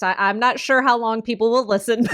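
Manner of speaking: talking through a laugh; giggling while speaking. Real, not acted.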